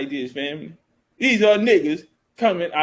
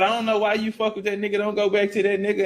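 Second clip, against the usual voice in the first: softer, fast, coaxing aside; hushed persuasion; 6 dB quieter, faster than usual. Retold or imitated. Northerners sweet-talking the freed men.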